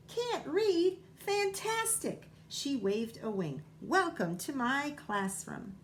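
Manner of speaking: very high, delighted squeal of a bird; overjoyed at a pupil who can't read; thrilled bird. A narrator's reading. Bird thrilled by non-reader.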